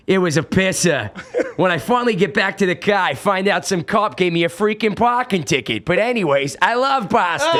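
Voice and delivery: put-on thick Boston accent; wicked Boston townie voice. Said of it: "I do my Boston accent".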